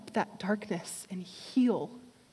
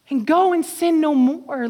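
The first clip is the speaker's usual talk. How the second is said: louder, ringing call; preached; 6 semitones higher, 8 dB louder than usual. Acted. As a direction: proclaim it over the room. Preached again at full force.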